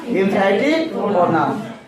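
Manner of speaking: very slow, each syllable drawn out; slow drill answer. Shown as a demonstration. Teacher drilling the term very slowly. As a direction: spell it out slowly for the class. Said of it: "क्या हो जाएगा?".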